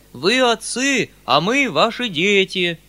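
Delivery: громкий, высокий, протяжный крик толпы; завопи за целый хор мужиков, растягивая слова; вопль мужиков. A narrator's reading. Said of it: "завопили вдруг мужики целым хором". (истошная мольба хором)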